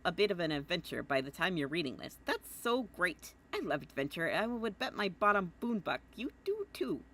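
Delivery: a hint of an eager, chummy boy; Jake voice. Reading Jake's letter to John, lightly voiced Jake. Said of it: "I keep doing my Jake voice now".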